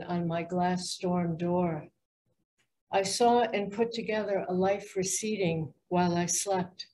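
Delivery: measured poetry recital in even phrases; poem reading. Acted. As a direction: read your poem aloud, pausing between lines. Reads own poem aloud.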